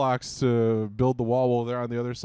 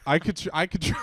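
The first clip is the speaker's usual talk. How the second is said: real laugh breaking up the words; 3 semitones higher than usual. Real, not acted. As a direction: talk through laughter. Laughing at idea of calling Grandpa.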